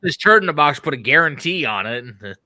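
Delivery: mock salesman pitch, quick; hammed-up huckster pitch; Tommy Boy quote. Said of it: "You remind me of Tommy Boy there".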